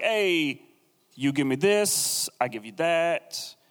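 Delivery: slow, hammed-up Italian-American wheeler-dealer; mob boss with Italian accent. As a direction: drag out the deal like a mock Italian mobster. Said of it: "the picture of a mob boss".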